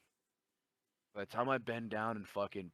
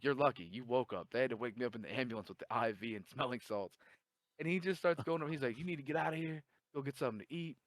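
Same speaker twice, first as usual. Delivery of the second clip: put-on old gym guy advice; 4 semitones higher, 3 dB louder than usual.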